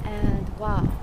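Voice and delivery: talking into strong wind; speaking against gusty wind; wind in the face. Real, not acted. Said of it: "it is very windy".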